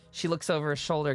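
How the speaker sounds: ordinary delivery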